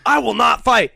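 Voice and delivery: mock firm refusal. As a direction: declare it like a stubborn movie hero. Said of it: "He's like".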